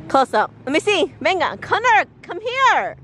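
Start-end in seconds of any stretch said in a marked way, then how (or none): 1.6-3.0 alarmed calling. Real, not acted. Mother stopping son touching poop, high alarmed shouts.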